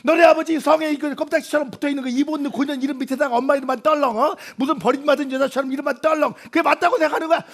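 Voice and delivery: a hurt mother lays into her son; indignant mother. Acted. Acted mother scolding son.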